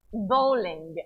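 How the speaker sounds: Israeli-accented Bowling, drawn out; a light Israeli accent on Bowling; attempted Israeli accent. Shown as a demonstration. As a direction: try Bowling as a Hebrew word, Israeli accent. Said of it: "say it in an Israeli accent".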